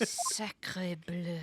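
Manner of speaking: whispered French exclamation; French accent. Acted. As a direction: breathe it out in French.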